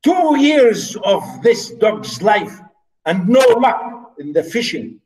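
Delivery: slow, weighted, bitter grumble; slow angry complaint. Shown as a demonstration. Teacher reading the steward's line slowly, angry. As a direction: grind out each word in anger. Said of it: "the steward really is very angry".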